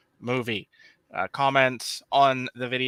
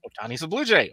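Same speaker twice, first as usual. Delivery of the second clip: lifted mock announcement, BLUE swooping up; mock breaking news; 3 semitones higher, faster than usual. Replaying Saturday's conflicting reports to co-hosts, mock breaking news. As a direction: announce it like a fresh rumor, peaking on "Blue".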